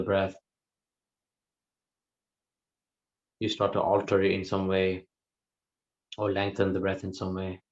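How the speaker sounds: calm, even delivery with long pauses; guided meditation. Real, not acted. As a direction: unhurriedly guide listeners into the breath, leaving silences. Leads a guided breath meditation.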